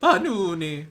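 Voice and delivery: high, loud mock lament; theatrical outcry. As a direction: cry out the name dramatically. Crying out nickname of game play.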